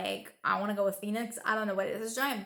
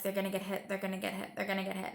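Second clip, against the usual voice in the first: anxious repeat; 2 semitones lower, 6 dB quieter, much faster than usual. Retold or imitated. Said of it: "And I'm like".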